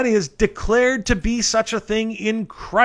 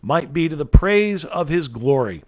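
scripture reading. Acted. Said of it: "End of reading".

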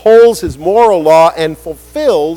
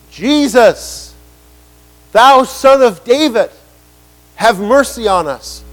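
raised, higher calling out for mercy; crying out; 4 semitones higher than usual. Acted. Blind men crying out to passing Jesus, raised plea. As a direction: call out to Jesus across the road.

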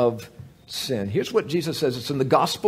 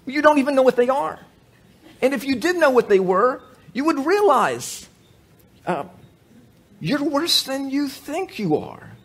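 preaching at full force; 9 semitones higher than usual. Real, not acted. Preacher confronting the congregation with a raised voice.

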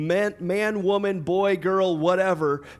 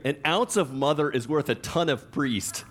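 laughing. Shown as a demonstration. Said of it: "I'm like, I like that one".

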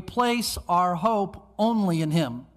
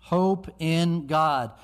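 firm slow repeat; 2 semitones lower, much slower than usual. Acted. Repeats the line more firmly.

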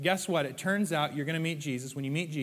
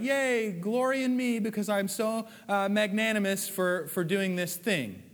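smug self-praise; 5 semitones higher than usual. Retold or imitated. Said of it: "And you're like".

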